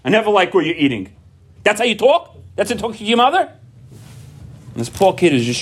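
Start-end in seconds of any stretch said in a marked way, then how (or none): 0.0-1.1 put-on whiny kid. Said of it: "stop being". 1.6-3.5 high, rising scold; high-pitched mock outrage at the kid; indignant parent. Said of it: "parent scolding child".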